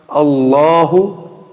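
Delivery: Allahu Akbar very slowly, accented R held on Akbar; accented R demo. Shown as a demonstration. Teacher shows that an accent is not an error, accented R. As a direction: draw it out to show the accented R. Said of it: "Ó, esse R, sotaque".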